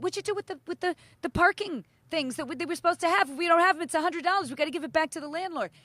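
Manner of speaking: high, loud frantic nagging; crazy temper. Retold or imitated. Daughter grilling her boyfriend about parking things, mock frantic. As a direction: imitate her flying off the handle. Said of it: "totally fucking a temper, everything crazy".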